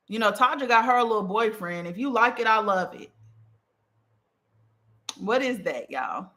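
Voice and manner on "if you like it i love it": sarcastic. Acted.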